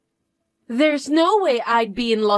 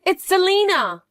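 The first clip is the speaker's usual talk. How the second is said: bratty little sister; 6 semitones higher than usual. Acted. Bratty stepsister calling out.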